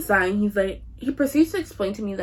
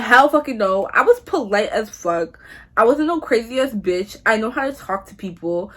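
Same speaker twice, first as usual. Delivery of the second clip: indignant denial; 5 dB louder than usual. Retold or imitated. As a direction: push back hard, affronted and emphatic. Indignant denial of supervisor's claim.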